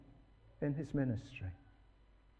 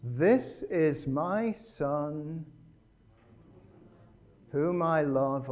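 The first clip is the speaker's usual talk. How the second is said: slow heavenly voice; 3 dB louder, much slower than usual. Acted. Voice from heaven quoted.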